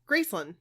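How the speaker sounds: Graceland said GRACE-lund; local pronunciation. Retold or imitated. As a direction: reduce Graceland's ending to "lund". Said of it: "they say".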